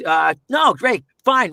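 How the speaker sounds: high, loud, raspy Michael J. Fox; jittery high Marty McFly voice; Michael J. Fox impression. Shown as a demonstration. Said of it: "You do Michael J. Fox".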